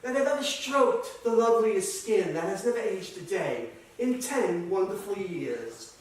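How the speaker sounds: toast lingeringly as the doting wife; wife's toast. Acted. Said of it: "And she toasts".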